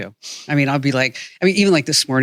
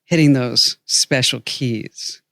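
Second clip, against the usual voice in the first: Leslie's sexy voice. Retold or imitated. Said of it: "in a completely erotic, sexy voice".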